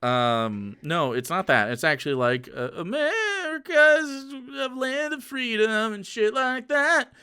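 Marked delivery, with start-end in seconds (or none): 2.8-7.1 high, slow, hammed-up patriotic swoon; mock the anthem's message with a high, slow voice; a touch of mock tearful pride.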